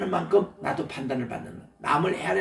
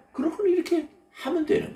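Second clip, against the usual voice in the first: laughing; 14 semitones higher than usual. Real, not acted. Laughing demo of wiping.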